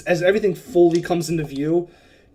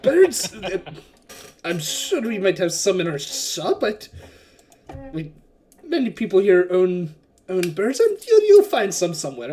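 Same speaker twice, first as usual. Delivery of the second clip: surprised merchant; 3 semitones higher, 3 dB louder than usual. Acted. Wakanga answers the bird character's question about birds, surprised. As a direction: answer the odd question helpfully.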